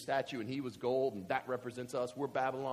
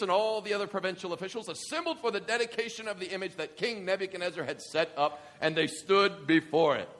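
dramatic scripture reading; 6 semitones higher, 7 dB louder than usual. Acted. Reads scripture aloud.

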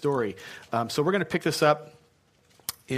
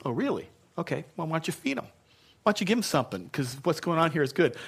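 mock sarcastic Jesus; 2 semitones higher, faster than usual.

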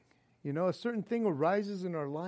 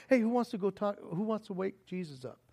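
calm easy voice; 5 dB quieter, faster than usual. Shown as a demonstration. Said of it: "a nice, calm, easy voice".

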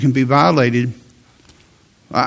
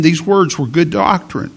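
normal talking voice

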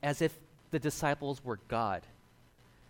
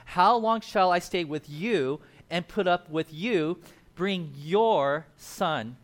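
slow, louder reading of the rebuke; stern rebuke; 3 semitones higher, 6 dB louder, much slower than usual. Retold or imitated. Pastor reading Jesus rebuking the father, stern. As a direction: drag it out, weary and stern.

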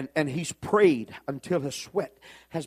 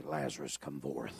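Jesus commanding; 14 semitones lower, 9 dB quieter than usual. Retold or imitated. Jesus calling Lazarus from the casket, low and commanding. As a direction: summon the dead man up. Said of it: "And Jesus could say".

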